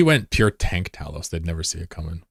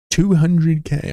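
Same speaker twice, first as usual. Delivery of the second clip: high, loud and slow disbelief; drawn-out stunned price; shocked disbelief; 10 semitones higher, 5 dB louder, much slower than usual. Pretend.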